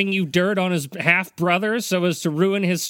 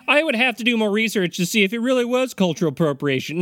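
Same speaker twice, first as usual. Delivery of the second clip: higher-pitched parroting of a co-host; mocking repeat; 4 semitones higher, faster than usual. Co-host parroting Mike about doing more research, mocking. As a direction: echo them back in teasing mimicry.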